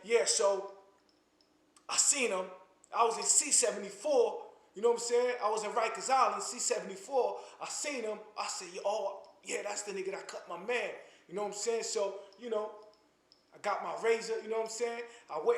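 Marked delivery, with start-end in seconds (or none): 0.1-10.9 lightly mimicking an ex-con's casual boast about jail; a hint of a bragging old-timer from Rikers; old ex-con telling stories. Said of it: "stories like".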